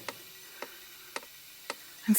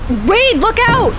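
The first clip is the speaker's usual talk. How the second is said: panicked shout; 13 semitones higher, 4 dB louder, slower than usual. Acted. Seeing the crash coming, she screams at Wade, loud and high. Sudden crash warning in car.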